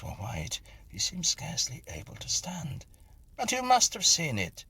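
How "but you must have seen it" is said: high, loud insistent exclaim. A narrator's reading. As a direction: burst out in disbelief. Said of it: "I exclaimed".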